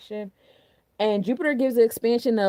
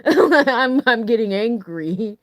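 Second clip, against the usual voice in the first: laughing mock anger; 2 semitones higher, 6 dB louder, much slower than usual. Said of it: "I'm irritated".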